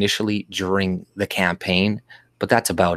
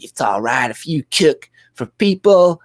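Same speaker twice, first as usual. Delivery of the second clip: high, hammed-up parody of her faked Black accent; mock Black American accent; 8 semitones higher, 4 dB louder than usual. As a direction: mimic her clumsy Black accent, pitched up. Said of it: "trying to do a black accent".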